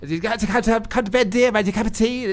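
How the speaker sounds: Brucey voice. Retold or imitated. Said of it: "my wife doesn't like me doing that voice".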